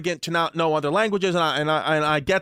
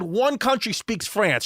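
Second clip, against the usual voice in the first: slow, higher mimicked declaration; Brooklyn mother; 5 semitones higher, slower than usual. Friend's mom arguing against French, mimicked slow emphasis. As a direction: lay it down slowly as a feisty mom. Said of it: "real deal Brooklyn lady smoking cigarettes".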